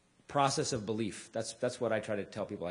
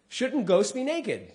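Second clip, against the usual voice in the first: slow punchline; 10 semitones higher, 5 dB louder, much slower than usual. Acted. Punchline drawn out.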